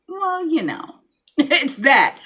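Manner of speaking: high, giggling "it's that" then laughter; laughing explanation. Retold or imitated. Explaining herself to a stranger, laughing high. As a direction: giggle it out, a bit embarrassed. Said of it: "And I'd be like".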